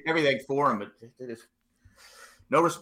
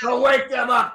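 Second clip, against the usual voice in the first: shouting; 6 semitones higher, 4 dB louder than usual. Pretend. Pitchman orders a helper.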